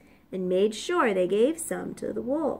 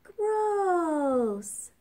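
high, drawn-out gross; disgusted pigs; 7 semitones higher than usual. A narrator's reading. Pigs react to the sneeze, high and disgusted. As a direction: groan in piglet disgust. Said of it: "they all cried".

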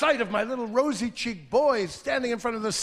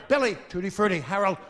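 mock shouting; 2 semitones higher than usual. Mock teen code calling.

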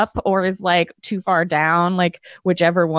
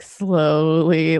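slow, stretched-out SLOWLY; drawn-out; 2 semitones lower than usual. Acted. Player describes the door opening slowly, word drawn out. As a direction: draw SLOWLY right out.

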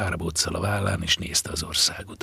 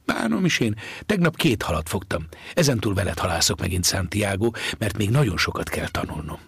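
a hint of an insistent young boy; lightly voiced eager boy. Boy insists on fishing with Santiago, lightly voiced defiance.

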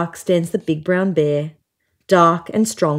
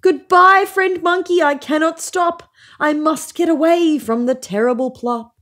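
panicky farewell; 9 semitones higher than usual. A narrator's reading. Fleeing animal calls to monkey.

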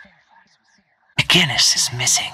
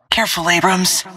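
higher-pitched warning to a teammate; sudden, higher cautioning call; urgent warning; 5 semitones higher than usual. Acted. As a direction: warn them with raised pitch.

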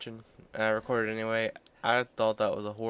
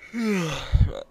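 yawn; 8 semitones higher, 8 dB louder than usual. Real, not acted. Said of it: "Sorry for the yawning".

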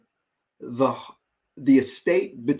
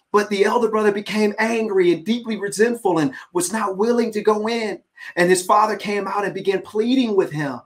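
animated reading; 5 semitones higher than usual. Shown as a demonstration. Preacher reading the verse to listeners, animated. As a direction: read it like it matters.

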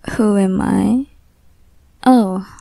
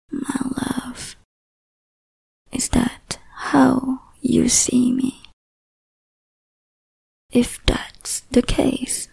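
possessive yandere lover purring over a captive, often whispering; obsessive lover. Acted. Obsessive lover to the captive listener, whispering possessively. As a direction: hold them close and never let go.

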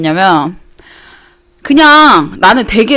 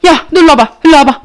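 urgent summons; 6 semitones higher, 4 dB louder than usual. Retold or imitated. Retold mom urgently calls child over.

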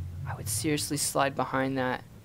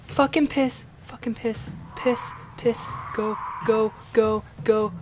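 real terrified scream; 5 semitones higher, 9 dB louder than usual. Real, not acted. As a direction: gasp then shrieked curse, much higher and louder, fading. Monster suddenly appears.

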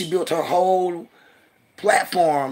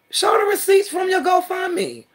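higher, louder angry ranting; furious call-out; 11 semitones higher, 5 dB louder than usual. Real, not acted. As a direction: rip into her, loud and high. Calling out rival online.

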